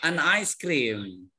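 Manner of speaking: "an ice cream" slowly, linking the n; slow article demo. Shown as a demonstration. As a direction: stretch "an ice" together. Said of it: "en, ya". ("an ice cream" diucapkan pelan, n disambung)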